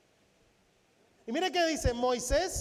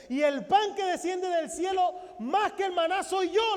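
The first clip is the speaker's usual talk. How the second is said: building proclamation; 3 semitones higher than usual. Acted. Jesus proclaims himself bread of heaven.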